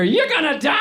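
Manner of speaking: high shouted lyric; rock shout. Retold or imitated. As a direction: yell it like a rock singer.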